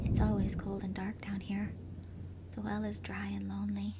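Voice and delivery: eerie whisper. A narrator's reading. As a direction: whisper the refrain like a ghost. Ghost refrain repeated.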